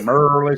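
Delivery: "Merlin" with the R and L drawn out; dragged R's and L's. Retold or imitated. Teasing a friend's Maryland, "Merlin" with dragged R and L. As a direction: mimic her, lingering on the R and L of "Merlin". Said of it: "She dragging her R's and her L's".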